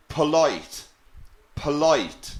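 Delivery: polite said slowly, split into po-lite; syllable demo. Shown as a demonstration. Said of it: "How many syllables are in the word polite".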